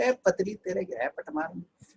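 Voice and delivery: a hint of a Motu Patlu squabble; cartoon bully taunt. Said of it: "तो वो मोटू पतलू पहले आता था टीवी पे". (हल्की ऊँची कार्टून जैसी धमकी)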